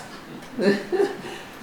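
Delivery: quick amused laugh; short airy chuckle; breathy laugh. Real, not acted. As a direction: laugh at the naughty horse. Horse misbehaving, owner amused.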